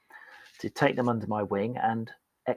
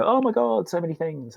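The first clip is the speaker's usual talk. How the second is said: much higher, exasperated rush; overwhelmed outburst; 8 semitones higher, 3 dB louder than usual. Retold or imitated. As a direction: throw up your hands. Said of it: "And they'd go".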